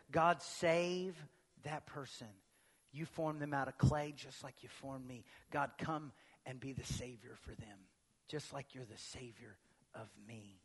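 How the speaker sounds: soft, hushed intercession; quiet prayer. Shown as a demonstration. Pastor leads a prayer for an enemy, soft. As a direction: murmur it as a private plea. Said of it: "could you just one moment say".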